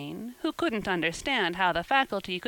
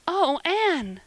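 high, louder gasping cry of joy; gasped; 8 semitones higher, 4 dB louder than usual. A narrator's reading. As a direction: catch your breath in delight. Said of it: "gasped Jane".

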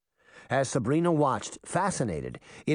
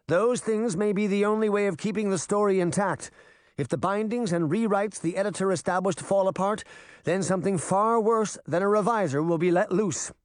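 wicked queen voice; 6 semitones higher than usual. A narrator's reading.

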